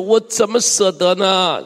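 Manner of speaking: slow, swelling plaintive question; drawn-out lament. Acted. Preacher recalls the earlier verse, lamenting. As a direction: stretch it out in reluctance. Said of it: "这不就是何西阿的叹息吗".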